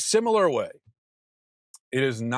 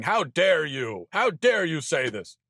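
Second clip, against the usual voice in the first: higher, mocking indignation; mock outrage; 4 semitones higher than usual. Parodying scolding messages from critics, mock outraged whine. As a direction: parody a scandalized critic, rising to a peak. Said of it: "messages ... saying".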